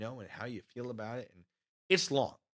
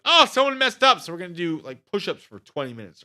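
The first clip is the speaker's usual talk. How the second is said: mock drill sergeant; 7 semitones higher, 12 dB louder than usual. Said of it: "they'll be like".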